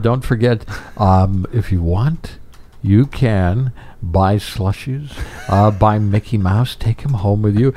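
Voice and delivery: halting, drawn-out Goldblum voice; slow, stop-start showman pitch; Goldblum impression. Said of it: "Goldblum, if he's the voice in the parking lot".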